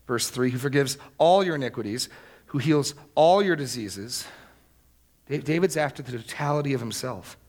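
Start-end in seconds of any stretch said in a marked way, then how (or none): 0.5-4.2 "all" lifted and hit hard; stress on the superlatives. Shown as a demonstration. Preacher reading verse three for its superlatives, stressing "all". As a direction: make each "all" stand out in the verse. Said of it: "notice the superlatives here".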